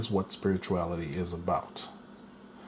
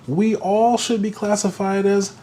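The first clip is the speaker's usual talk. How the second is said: climbing higher and louder to a big crazy; building to crazy; 11 semitones higher, 6 dB louder, slower than usual. Real, not acted. Telling the audience everyone's crazy, rising to a loud high crazy. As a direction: build it up and pop the last word high.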